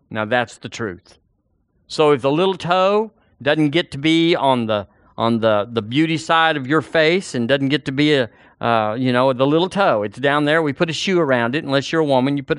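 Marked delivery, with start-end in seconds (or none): none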